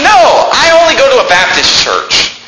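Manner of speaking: Jesus insisting on a Baptist church, shouted; voicing Jesus. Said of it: "Jesus said".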